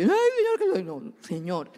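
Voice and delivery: súplica que empieza con un grito agudo y luego baja; madre orando por su hija. Retold or imitated. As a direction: ruega a Dios con angustia por la hija. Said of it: "Entonces yo oro con esa palabra". (madre imitando su oración por la hija, primero aguda y después más suave)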